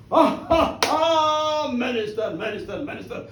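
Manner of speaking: big, loud stage laugh into words; hearty acted laugh at someone's expense; amused mocking laughter. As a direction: laugh it off, then settle down. Tall figure laughs at minister.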